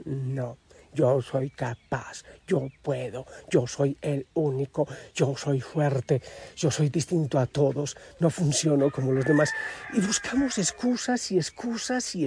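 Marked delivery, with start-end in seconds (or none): 0.0-9.5 lower, slow boastful insistence; proud refusal. Retold or imitated. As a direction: brag slowly about being strong. Stubborn person refusing help.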